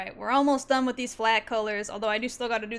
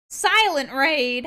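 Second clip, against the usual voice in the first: 1 mock outrage; 3 semitones higher, 6 dB louder, slower than usual. Scolding raider in mock outrage.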